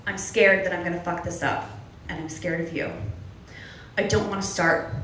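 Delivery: a heartfelt invocation, performed for the crowd; spoken-word invocation. Acted. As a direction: declaim it like a prayer to the room.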